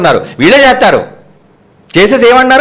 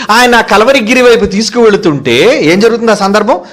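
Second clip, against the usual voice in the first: ordinary talk, nothing marked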